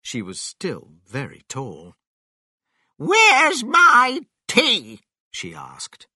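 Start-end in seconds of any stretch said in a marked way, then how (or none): 3.0-5.0 very high, loud, slow screech; demanding grandma. A narrator's reading. Grandma comes outside wanting tea, demanding loudly. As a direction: draw out each word as a loud high demand.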